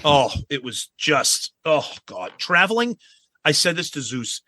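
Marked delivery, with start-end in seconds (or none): none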